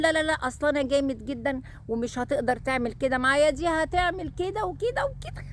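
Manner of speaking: lightly voiced boastful young man, rising high at the end; mock cocky fiancé. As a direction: mimic his cocky boast, then his voice goes up high. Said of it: "هتقول". (تقليد خفيف لشاب واثق زيادة عن اللزوم)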